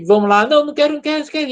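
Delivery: imitando o filho fazendo birra, mais agudo; birra imitada. Retold or imitated. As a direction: choramingo de criança, de brincadeira. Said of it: "ele tinha dias que". (mãe imitando o filho que não quer escovar os dentes, birrento)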